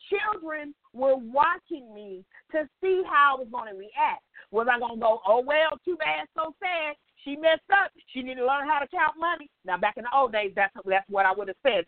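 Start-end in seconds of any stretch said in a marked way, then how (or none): 5.2-9.5 sing-song dismissive shrug of a voice; careless, mocking tone; mock callous old self. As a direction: brush it off like you don't care. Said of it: "that's why I said it like that".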